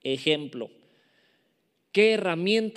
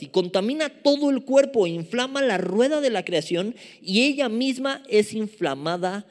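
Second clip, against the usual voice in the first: forceful, raised reading of scripture; emphatic scripture reading; 4 semitones higher, 4 dB louder than usual. Acted. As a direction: reread the verse with weight. Relee el versículo con fuerza. (lectura bíblica enfática)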